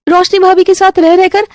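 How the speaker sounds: high, hurt protest; upset daughter. Acted. Isha protesting to her mother, high and hurt. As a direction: push back at mom.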